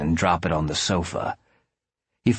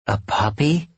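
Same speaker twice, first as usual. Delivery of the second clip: offended woman; 8 semitones higher than usual. A narrator's reading. Candy reacts offended to the offer.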